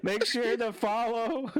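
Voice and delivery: slow, forced serious delivery; straight face. Acted. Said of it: "I can't even fucking say it with a straight face".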